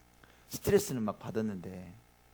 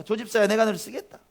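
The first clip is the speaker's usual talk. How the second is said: much higher and louder, ringing out 조 집사야; fervent call of the Lord; 9 semitones higher, 8 dB louder than usual. Acted. Pastor voices the Lord calling, at the climax, loud. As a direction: proclaim 조 집사야 with full force as the Lord. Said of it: "주님 말씀하십니다".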